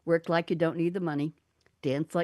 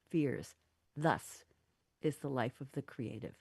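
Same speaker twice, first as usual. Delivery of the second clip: soft, unhurried poem reading; poem recital; 3 dB quieter than usual. Acted. Host reading her poem to friends, soft and unhurried. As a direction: read it like a heartfelt dedication poem.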